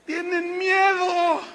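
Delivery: loud emphatic. Real, not acted. Preacher calling out the fearful congregation, slow and loud. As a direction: hammer each word slowly.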